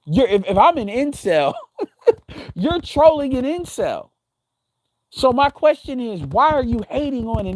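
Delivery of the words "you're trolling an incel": laughing. Real, not acted.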